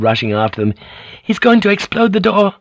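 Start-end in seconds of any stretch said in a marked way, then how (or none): 1.2-2.5 very high, alarmed shout. Acted. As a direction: yell the danger. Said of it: "Mariko shouted".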